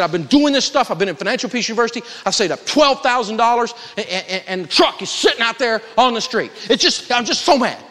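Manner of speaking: mildly hammed-up indignation; retold angry rant. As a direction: act out an upset woman's worked-up complaint. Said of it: "I'm so mad".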